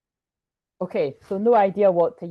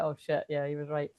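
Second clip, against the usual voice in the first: softer, lower dawning realization; quiet realization; 4 semitones lower, 6 dB quieter than usual. Retold or imitated. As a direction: let it sink in quietly. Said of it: "And it's like".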